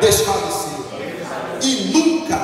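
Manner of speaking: loud, slow call for the church to repeat. Shown as a demonstration. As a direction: lead the response, loud and slow. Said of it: "Repete assim comigo".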